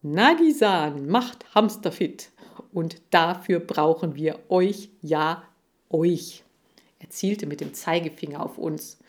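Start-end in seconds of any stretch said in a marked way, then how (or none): 0.0-6.4 lightly voiced advertising presenter; a touch of showy salesmanship; TV pitchman. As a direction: pitch it straight at the viewers. Seifried's advert continues.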